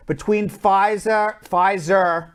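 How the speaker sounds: a light Long Island accent slipping into Pfizer. Real, not acted. Host slipping into Long Island accent on air, lightly. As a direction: lean a little into Long Island vowels on Pfizer. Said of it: "I'm using my Long Island accent now".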